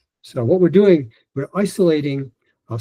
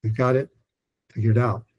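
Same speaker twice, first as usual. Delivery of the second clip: one group at a time. Shown as a demonstration. Coach showing practice steps, one group at a time with pauses. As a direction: separate word groups with clear pauses between. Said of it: "I do one group at a time".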